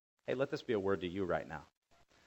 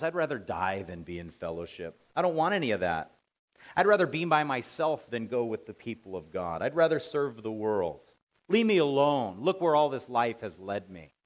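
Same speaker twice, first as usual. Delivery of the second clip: rising mock protest, louder; voicing a bitter believer; 4 dB louder than usual. Preacher playing a soured believer refusing fellowship, mock protest. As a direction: mimic a believer pushing church away.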